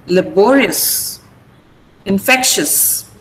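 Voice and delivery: slow "laborious", "infectious", each ending in a plain "-us"; short "-us" ending. Shown as a demonstration. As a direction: model "laborious" and "infectious" slowly, no extra E before the S. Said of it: "You just say S".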